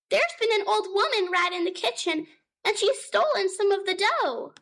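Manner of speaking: high, small kitten voice calling out; a scared little kitten crying for mum; frightened kitten. Acted. Kitten Moppet calling to her mother, high and frightened.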